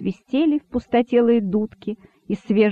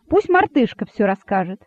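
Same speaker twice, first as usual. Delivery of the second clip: ordinary delivery, nothing marked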